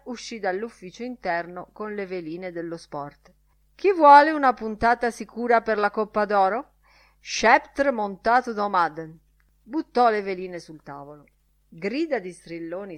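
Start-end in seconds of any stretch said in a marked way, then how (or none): 3.7-9.2 loud, raised announcer's call; touting a tip. A narrator's reading. Lenihan offering a sure Gold Cup bet, touting. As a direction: call it out like a racing tout.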